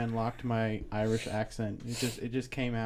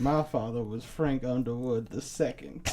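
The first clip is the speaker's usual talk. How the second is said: mock-genteel old South accent; hammed-up Frank Underwood Southern accent; antebellum Southern accent. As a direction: play a Southern politician's accent. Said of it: "that's like an antebellum South accent".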